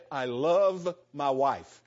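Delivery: slow, serious declaration of love. Shown as a demonstration. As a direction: draw out LOVE slowly and earnestly. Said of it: "make a more serious comment".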